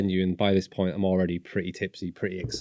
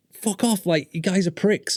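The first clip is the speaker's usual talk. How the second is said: mock angry; 10 semitones higher than usual. Confrontation retold.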